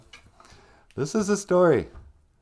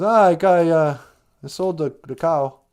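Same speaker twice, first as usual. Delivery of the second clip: higher, halting acted boy; hesitant son; 7 semitones higher, 8 dB louder than usual. Jack tells his mom about the cow, higher and halting. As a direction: report to mom in a raised, stumbling voice.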